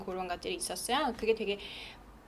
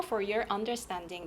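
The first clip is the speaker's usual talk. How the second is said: "For your understanding" stressing "understanding", then dropping; stressed noun, falling; 5 dB quieter, much slower than usual. Shown as a demonstration. Teacher models the closing line, falling on "understanding". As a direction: lean on "understanding" and let it fall. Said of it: "명사에 강세하면서 억양 내려가면".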